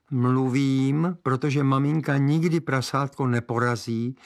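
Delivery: put-on boy outwitting the witch, cheeky; boy's voice. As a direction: answer cheekily like a small boy.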